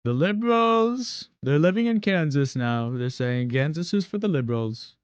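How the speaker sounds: a light Trump rally voice; Trump impression. Streamer riffing a mock Trump rant about liberals. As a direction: ramble like a rally speech. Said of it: "I, Donald J".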